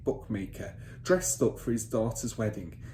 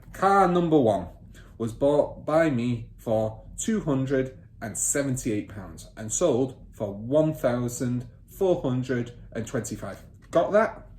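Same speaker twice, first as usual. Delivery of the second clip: bossy father; 2 semitones higher, 5 dB louder, slower than usual. Acted. Father ordering son to take down figures, bossy. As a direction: snap the order at the boy.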